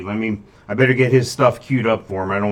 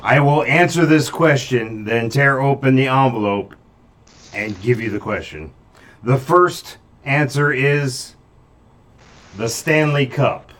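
mystic seer; 2 semitones higher, 4 dB louder, slower than usual. Acted. Mystic reads answers.

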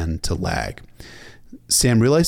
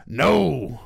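loud, raised commander's bellow; 6 semitones higher, 5 dB louder than usual. A narrator's reading. Old bear refusing over the war horns, bellowed. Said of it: "had to bellow at the top of his lungs".

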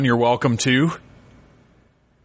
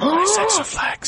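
big shouted announcer voice, much higher; shouted announcement. Acted. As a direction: bellow the name like a ring announcer. Repeats the name as a big announcement.

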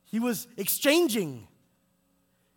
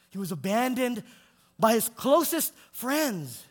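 louder and slower, pressing the point; building emphasis; 4 semitones higher, 6 dB louder than usual. Acted. Preacher to congregation, swelling with slow emphasis. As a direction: lean in hard on the second telling.

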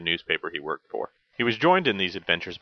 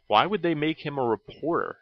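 baffled; 9 semitones higher than usual. Real, not acted. Puzzled rhetorical question.

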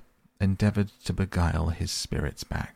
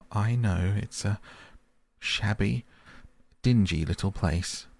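sobbing, broken; 3 semitones higher than usual. Acted. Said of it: "he sobbed forth at last, broken".

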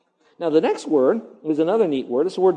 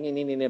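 mocking nee; 5 dB quieter than usual. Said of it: "you hear them saying".

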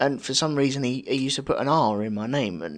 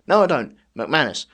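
louder, firm correction of the name McManus; insistent correction; 4 dB louder than usual. Retold or imitated. Pupil firmly corrects his teacher, insistent. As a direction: push back and insist on McManus. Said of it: "he used to try and drill it into me".

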